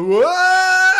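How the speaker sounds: screeched high "What?"; Wayne's World shout. Retold or imitated. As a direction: yell it like a close-up gag. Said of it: "'cause they do the".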